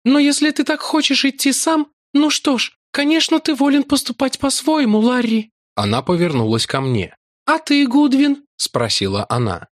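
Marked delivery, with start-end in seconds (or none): 0.0-5.5 gentle maiden. A narrator's reading. Lakla yields. 7.4-8.4 gentle maiden. A narrator's reading. Lakla asks.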